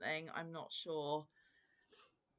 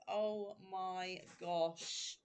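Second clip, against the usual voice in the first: hushed awe; much slower than usual. Real, not acted. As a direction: breathe it out slowly, overwhelmed. Moved by gifts.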